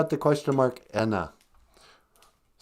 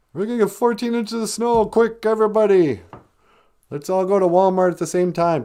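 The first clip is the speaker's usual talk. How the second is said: mock panic; 3 semitones higher than usual. Mocking panicky newscaster.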